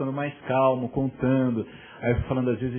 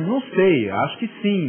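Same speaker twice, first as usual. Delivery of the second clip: put-on sulky teen; 7 semitones higher, 7 dB louder than usual. Son answers if he'll die today.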